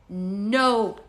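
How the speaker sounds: imitating a child's mispronounced refusal; small kid laying down the law; Zoe. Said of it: "in the funny way that she says it".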